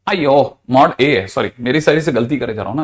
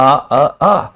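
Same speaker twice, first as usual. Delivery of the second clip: mock cries; 3 dB louder than usual. Shown as a demonstration. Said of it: "तीन बार चिल्लाएगा आ".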